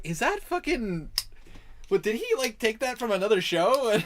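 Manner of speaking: high-pitched, puzzled disbelief; incredulous recognition. Retold or imitated. Listener remembering the line from another show, high and incredulous. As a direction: ask it as if suddenly recognizing it.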